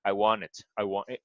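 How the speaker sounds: American "I want it" with a schwa in the last syllable; American teacher modelling a schwa. Shown as a demonstration. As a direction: say it the American way, reducing the vowel to a schwa. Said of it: "Americans sometimes use the schwa".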